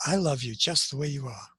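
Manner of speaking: a touch of tender reassurance; inner voice, tender. Retold or imitated. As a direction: let the voice within comfort you. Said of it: "'cause it says".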